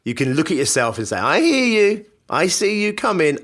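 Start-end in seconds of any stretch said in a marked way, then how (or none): 1.2-3.4 firm self-talk. Acted. Speaker confronting his bad-cop thoughts, firm raised voice. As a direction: catch the bad thought and stop it cold. Talking back to tempting thoughts.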